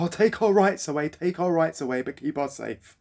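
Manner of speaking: mocking. Mocking lockdown supporters' attitude.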